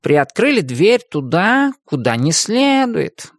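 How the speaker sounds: sighing. Acted. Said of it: "вздохнул кот".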